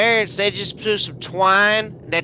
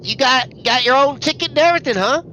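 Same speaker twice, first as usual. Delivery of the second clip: patronizing, higher and fast; condescending; 4 semitones higher than usual. Acted. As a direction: talk down to him sweetly. Snide remark to the other passenger.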